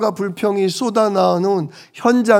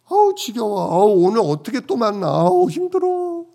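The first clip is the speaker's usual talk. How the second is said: mock weary groans; 4 semitones higher than usual. Pastor imitating his own weariness at another meeting, whiny. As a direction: play up your own tiredness at meeting them again.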